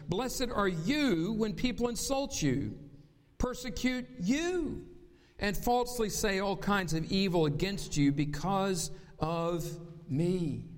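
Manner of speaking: slow, weighty reading of the verse; emphatic reading. Shown as a demonstration. Pastor reading the verse to the congregation, emphatic and slow. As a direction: drive each phrase home. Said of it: "He drives it home".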